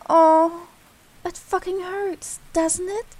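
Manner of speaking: mock sympathy. Taunting pretend sympathy.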